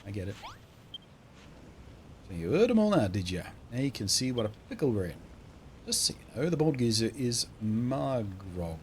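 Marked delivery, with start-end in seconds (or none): 2.3-8.8 lightly voiced accented local; put-on rustic voice, confiding; game townsperson guide. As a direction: sum up the trouble for a newcomer.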